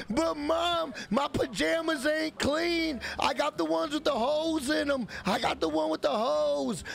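hammed-up kid begging to stay online; whiny son. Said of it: "son pleading".

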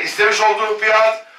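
rapid auction bid calling; auctioneer. Real, not acted. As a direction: call the bids like an auctioneer. Live auction calling bids.

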